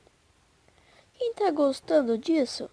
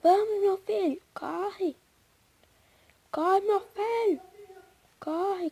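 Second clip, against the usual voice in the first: being chased; 4 semitones higher than usual. Real, not acted. Urging character to flee.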